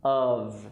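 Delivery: "Of" said UHV; V, not F. Shown as a demonstration. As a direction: voice the end of "Of". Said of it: "No F sound".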